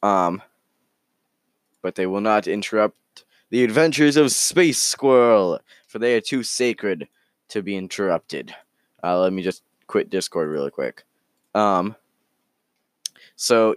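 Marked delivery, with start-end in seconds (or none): 1.8-8.5 theatrical announcer swell, falling away at the end; hammed-up solemn declaration; mock-grand proclamation. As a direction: proclaim it as if it were holy. Mock-solemn vow about the story.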